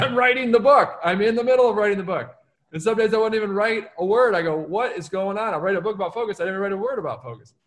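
exasperated self-talk. Retold or imitated. Author retelling how he scolded himself mid-book, exasperated.

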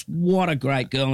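drawn-out retold praise; impressed. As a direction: say it slowly with admiration. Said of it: "Dad was that impressed".

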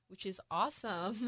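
dry sarcastic praise. Real, not acted. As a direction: say it as fake praise, deadpan.

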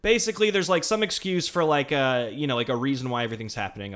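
hyped-up, fast sales pitch; fake excitement. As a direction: gush like a superfan. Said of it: "I'm gonna pretend I am with the passion".

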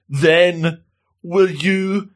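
halting, pitch climbing with each phrase; hesitant love confession. Retold or imitated. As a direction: build up nervously to the big question.

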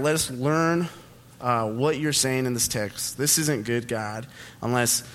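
simple, unhurried prayer, softening toward the amen; praying. Real, not acted. Pastor praying for himself before the message, sincere prayer. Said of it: "I'm gonna pray for myself real quick".

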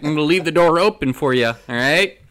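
lazy invite from a dirtbag. Pretend.

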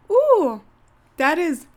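high squeal at sour taste; puckering from sourness. Real, not acted. Reacting to sour grape.

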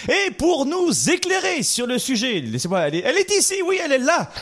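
high, bright welcome of the guest; excited introduction. Real, not acted. Host to listeners, welcoming the guest with excitement.

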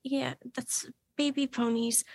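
soft, quick whispered aside. Real, not acted. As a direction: say it under your breath.

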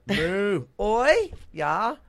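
put-on high, loud Canadian-accented moo; nice Canadian cow chiming in. Doing regional cows, Canadian cow. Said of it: "a Canadians would be like".

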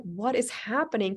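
voiced bewilderment, lightly exclaimed; bewildered question. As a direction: ask it aloud in disbelief. Retells her bewilderment at the scene.

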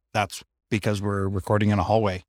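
recorded in an echoey hallway; echoey hallway sound. Real, not acted. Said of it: "background noise and things like that".

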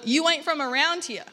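imitated Southern small-town drawl; put-on Southern twang. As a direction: mimic a South Carolina local's drawl. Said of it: "put on the southern drawl".

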